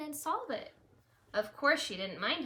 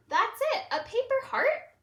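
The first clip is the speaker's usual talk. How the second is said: put-on high, loud let-down kid voices; disappointed kids; 13 semitones higher, 9 dB louder than usual. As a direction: whine it like unimpressed children. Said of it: "The critters were disappointed".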